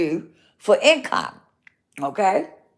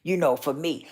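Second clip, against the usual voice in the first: frustrated muttering; 5 semitones lower, 8 dB quieter than usual. Retold or imitated. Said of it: "I got a little frustrated and I said".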